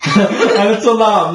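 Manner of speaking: LAMB said as "lahm", laughing; imitating student's vowel. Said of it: "Not quite lamb".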